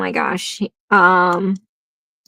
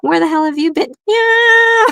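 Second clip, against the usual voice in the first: high, indignant kitty scolding its owner, ending in a loud meow; be the cat complaining he was left alone; angry cat voice; 11 semitones higher, 4 dB louder than usual. Retold or imitated. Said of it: "And then it's like".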